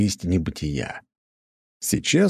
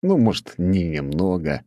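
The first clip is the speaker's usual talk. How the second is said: plain reading voice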